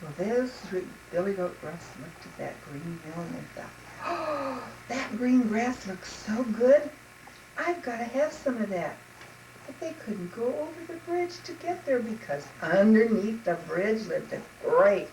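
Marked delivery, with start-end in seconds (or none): 4.0-8.9 higher, drawn-out wistful craving; slow, eager sigh of longing; longing goats. Acted. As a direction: yearn hungrily for that grass.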